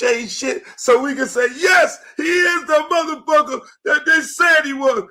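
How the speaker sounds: hammed-up media voice escalating to a shout; mocking media rant. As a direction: ramp up into an outraged mock yell. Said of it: "It's that whole thing of".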